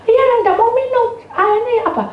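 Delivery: high-pitched protest; child's complaint. Retold or imitated. Child explains about the water, high protest.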